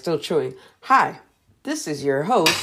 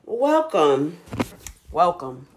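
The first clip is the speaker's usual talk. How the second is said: high, bright show-host hello; sing-song welcome to the party; bubbly host greeting; 11 semitones higher, much slower than usual. Acted. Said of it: "Okay, I'm sorry. Let me start again".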